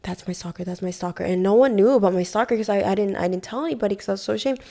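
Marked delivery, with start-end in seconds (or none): 0.0-1.2 quiet, frightened aside to her mama-san; hushed whisper. Retold or imitated. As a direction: tell her secretly so he can't hear. Whispering to mama-san about stalker.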